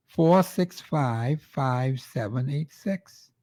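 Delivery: very slow, digit by digit; slow dictation. Shown as a demonstration. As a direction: spell the number out slowly for listeners to write down. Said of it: "repeats number slowly for listeners".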